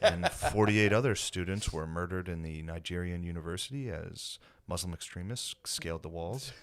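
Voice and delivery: imitating an even, unmoved radio newsreader; deadpan monotone newscaster impression; monotone news report. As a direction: read it like a routine bulletin, all on one tone. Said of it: "with the same monotone".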